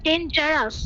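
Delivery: ডেঞ্জারাস split as den, ja-ras; broken into syllables. Shown as a demonstration. Teacher showing a multi-clap adjective, broken into syllables. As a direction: break ডেঞ্জারাস into distinct beats. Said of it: "ডেঞ্জারাস দুইবার ভেঙে বললাম".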